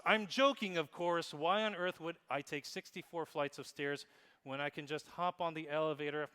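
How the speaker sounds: hammed-up cheerful caption voice; playful read-aloud. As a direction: read it like a gushing social post. Reading an emoji-style post aloud.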